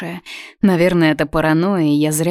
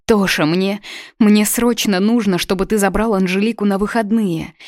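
voice failing; 4 semitones higher than usual. Acted. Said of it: "Голос подводит".

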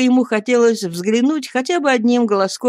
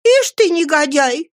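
high, louder scolding; indignant cry; 9 semitones higher, 4 dB louder than usual. Acted. Passerby woman scolds Oliver, high indignant cry. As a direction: shame the boy. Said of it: "сказала одна женщина".

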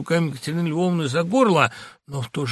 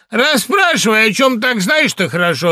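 higher and louder, brazen and mocking; insolent; 7 semitones higher, 6 dB louder than usual. Wife answering her husband, insolent and defiant. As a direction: dare him to ask. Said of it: "отвечал дерзко".

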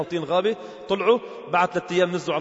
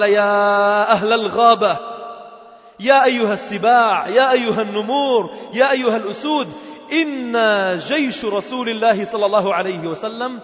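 calling out; slower than usual. Retold or imitated. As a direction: summon every beast with a stretched call. Uqba calls out to forest.

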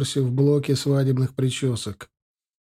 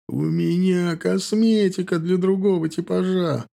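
slow, higher moaning complaint; nervous stylist moaning to the bride, slower; groaned; 6 semitones higher than usual. A narrator's reading. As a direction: moan it in despair. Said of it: "простонал он".

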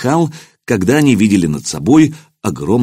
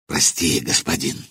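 much softer and lower, contrite; ashamed apology; 6 semitones lower, 8 dB quieter than usual. Acted. Shamed centurion apologizing to the prince, soft and low. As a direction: say it small, eyes down.

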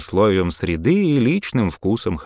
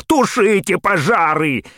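high, loud frantic commands; yelling orders; 13 semitones higher, 5 dB louder, slower than usual. A narrator's reading. Panicked mayor yelling at Maxwell to stop the fires. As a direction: scream the orders down the radio. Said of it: "орал мэр".

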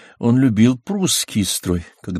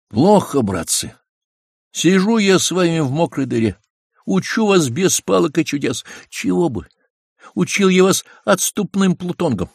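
higher, scolding commander's voice; stern old general; 7 semitones higher than usual. A narrator's reading. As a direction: chide the troops like a gruff general. Suvorov scolds soldiers.

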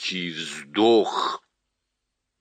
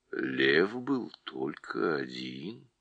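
low and slow, stress on был; calmly insisting, deep voice; 7 semitones lower, 6 dB quieter, slower than usual. Acted. Голос Льва. (лев БЫЛ один, низко)

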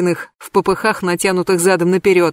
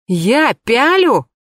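slow, higher outraged gasp; 5 semitones higher, 3 dB louder, much slower than usual. Acted. Anka gasps in outrage at the narrator. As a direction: gasp it as a shocked question. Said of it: "ахнула Анька".

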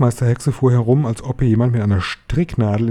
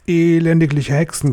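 high, scornful witch screech; 6 semitones higher than usual. A narrator's reading. Grand High Witch berating her witches, high screech. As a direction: screech the insult at the crowd. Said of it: "kreischte sie wieder".

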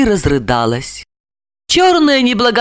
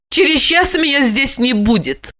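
higher, defiant taunt; 7 semitones higher than usual. A narrator's reading. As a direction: needle him with the news. Alexandra taunts him. (дерзко)

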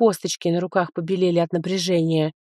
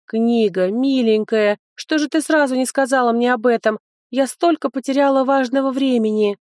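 pleading; 5 semitones higher than usual. Acted. Heroine pleads with book.

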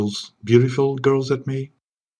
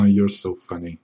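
controlled suave chuckle, then the remark; sexy-voiced laughing. Bond amused by the interviewer, smooth composed laugh. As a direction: laugh without losing the sexy voice. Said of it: "I keep my sexy voice even when I'm laughing".

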